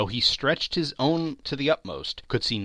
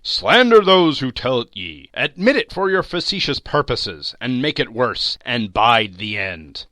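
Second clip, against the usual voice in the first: loud, scornful spirit's taunt; loud sarcastic warning; bitter challenge; 9 dB louder than usual. A narrator's reading. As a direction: throw it at him with scorn.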